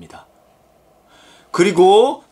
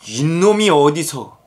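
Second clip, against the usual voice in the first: slow, drawn-out mock indignation; angry master; slower than usual. Master angered at his servant, slow indignant rebuke. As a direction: stretch out an acted scolding. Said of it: "주인이 화를 냅니다".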